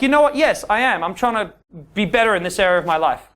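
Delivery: unashamed, honest admission; owning it. Shown as a demonstration. Man owns up to a woman about practicing, unashamed. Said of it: "It's about owning it".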